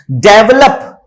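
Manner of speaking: "डेवलप" as DEV-lup; e vowel first in "डेवलप"; wrong pronunciation. Shown as a demonstration. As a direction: stress at the front of "डेवलप". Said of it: "डेवलप बोलते हैं".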